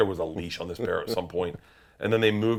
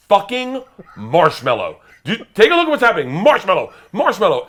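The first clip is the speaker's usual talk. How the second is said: loud, high frantic plea to trainer; loud panicked yelling; desperate pleading; 10 semitones higher, 10 dB louder than usual. Retold or imitated. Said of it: "looking at the trainer going".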